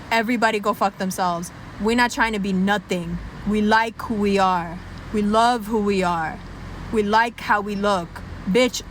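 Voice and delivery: proud Irish. Acted. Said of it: "the Irish are like".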